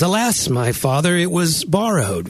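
mock King James wail; lightly hammed Bible lament; lament of the prophet. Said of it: "he goes".

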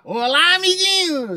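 high, cartoonish kids' host voice; theme park character. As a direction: squeal it like a children's mascot. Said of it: "Mas o Neto eu posso imitar".

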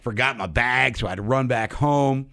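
lisping without dentures; speaking without teeth in; toothless. Real, not acted. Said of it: "if I'm lisping a little more than normal".

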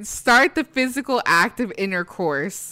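slow, prim, exaggerated reading; mock formal. Shown as a demonstration. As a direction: savor each word like a prude. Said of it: "The way she said that was so great".

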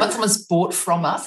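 Australian vowels in "bought"; Australian accent. Real, not acted. Host repeating her question in her own Australian accent. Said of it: "that's my accent".

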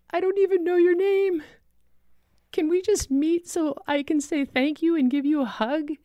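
a lightly voiced grateful survivor; rescued man calling to say thank you; thin emotional voice. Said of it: "thin, emotional voice say".

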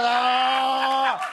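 doorman's hearty shouted reply; shouted doorman grunt. Retold or imitated. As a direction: bark out a happy grunt. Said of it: "Ele faz".

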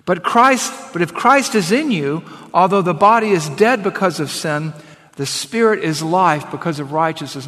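emphatic public Bible reading; scripture reading. Acted. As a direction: proclaim the verse firmly to a congregation. Reads scripture aloud to congregation.

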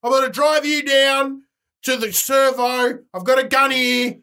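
loud drill-sergeant shouting; barking army general. Acted. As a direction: bark orders at a private. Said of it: "I'm the general from the army".

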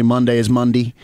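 second "Monday" said the Appalachian way, ending "-dee"; Appalachian pronunciation. Shown as a demonstration. Talking hot rods with dad, Appalachian "Monday". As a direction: turn the last "Monday" into country "Mundy". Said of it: "when I get on the phone".

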